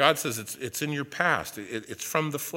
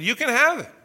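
mock exasperated god; 11 semitones higher, 9 dB louder than usual. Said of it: "And then the Lord said".

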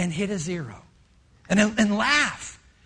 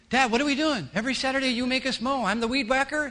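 put-on kids complaining; 2 semitones higher, 3 dB louder, faster than usual. Kid asks Dad why no mowing today, shouting and laughing. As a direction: pile on the complaints like a confused child. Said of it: "Really make them weird".

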